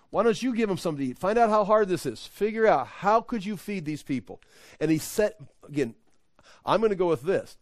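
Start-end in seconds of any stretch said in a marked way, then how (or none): 0.1-4.4 acted challenge. Voicing Jesus challenging disciples.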